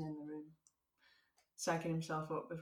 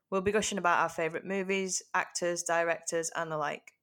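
bright, louder presenter voice for the intro; telephone voice; 6 dB louder than usual. Acted. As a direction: put on a polished phone-greeting voice. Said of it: "Telephone voice".

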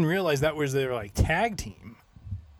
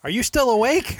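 laughing. Real, not acted. Laughing while teasing co-host.

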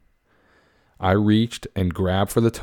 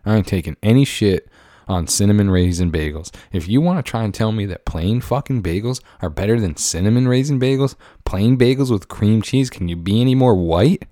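mock outrage; 2 semitones higher, 3 dB louder than usual. Heated rant defending cinnamon bagels.

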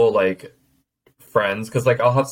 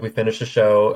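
ordinary talk

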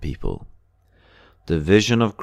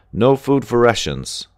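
a dry, sarcastic jab, pitched higher; bitter sarcasm from the crowd; 6 semitones higher, 4 dB louder than usual. A narrator's reading. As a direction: sneer at the empty promise. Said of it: "someone comments sarcastically".

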